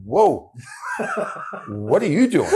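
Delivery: high and loud, broken by laughter; laughing. Real, not acted. Player recalls roommate barging into trailer, laughing. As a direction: laugh through the line. Laughing while retelling prank.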